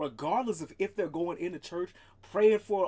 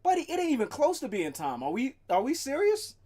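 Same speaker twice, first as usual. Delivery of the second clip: talking to the cat; 10 semitones higher, 5 dB louder than usual. Real, not acted.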